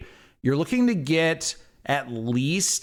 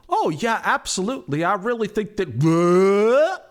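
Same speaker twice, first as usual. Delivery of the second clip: higher eager agreeing voice; Tim caught mid-sentence; 6 semitones higher, 4 dB louder, slower than usual. Acted. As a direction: keep chatting eagerly, cut off. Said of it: "he's like".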